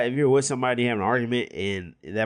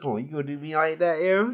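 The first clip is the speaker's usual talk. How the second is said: playing Julian; 5 semitones higher than usual. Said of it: "Yeah, I'm Julian".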